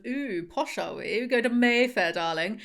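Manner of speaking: lightly put-on posh southern English accent; mock-posh Mayfair darling accent. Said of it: "southern kind of ... accent".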